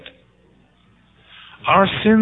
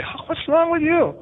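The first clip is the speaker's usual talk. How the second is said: high, slow, drawn-out "what's wrong"; exasperated question; slower than usual. Retold or imitated. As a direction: ask it high and long, baffled at their stubbornness. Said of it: "and you say".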